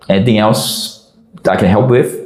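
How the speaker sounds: mock-sincere offer, evenly. To the gang after sweeping their butts, falsely sincere. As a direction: lay on the politeness without a trace of sarcasm. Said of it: "Being very sincere".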